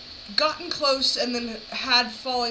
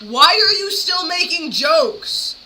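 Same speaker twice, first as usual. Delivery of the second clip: slow, louder, incredulous; exasperated disbelief; 7 semitones higher, 8 dB louder, slower than usual. Real, not acted. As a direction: ask it slowly, baffled and exasperated. Reacting to clip of predator joking.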